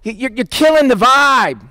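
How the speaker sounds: mildly exasperated protest; mad. Acted. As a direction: act out annoyance, pleading for him to back off. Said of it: "They were mad at him".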